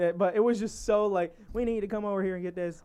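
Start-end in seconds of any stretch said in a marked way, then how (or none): 1.5-2.8 overdone southern mom imitation; thick southern accent. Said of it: "a little bit too thick of an accent".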